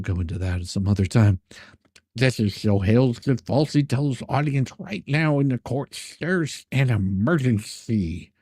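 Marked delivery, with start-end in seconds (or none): 2.1-8.3 reads the email out, a touch mocking; lightly sarcastic email read-out; reading an email aloud. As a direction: read his words out like a document. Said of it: "this is what his email was".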